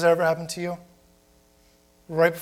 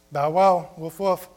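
mock barking; slower than usual. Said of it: "She's saying".

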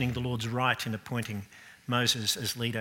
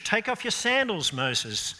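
high, raised command; voice of God; 7 semitones higher, 5 dB louder than usual. Retold or imitated. God commanding Moses at the bush, raised and solemn. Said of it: "Remember the burning bush?".

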